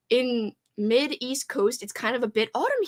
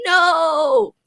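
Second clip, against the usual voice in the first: loud, higher shocked no; 5 semitones higher, 6 dB louder than usual. Real, not acted. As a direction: protest in disbelief. Reacts in disbelief.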